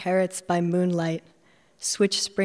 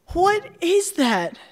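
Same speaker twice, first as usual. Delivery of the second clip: much higher, louder, slow puzzled call; surprised question; 11 semitones higher, 5 dB louder, slower than usual. Acted. Rose calling back about the strange find, surprised. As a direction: sound baffled by what she's holding up.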